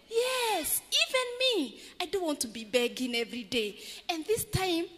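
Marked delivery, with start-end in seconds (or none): 0.1-3.8 pleading beggar answering the rich man; eager beggar. Acted. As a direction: lift the pitch for the eager beggar. Beggar voiced in story.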